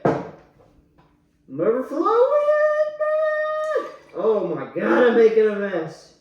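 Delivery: rising alarm at the spill; startled, loud and rising; surprised outburst. Real, not acted. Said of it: "Sorry, I'm drunk".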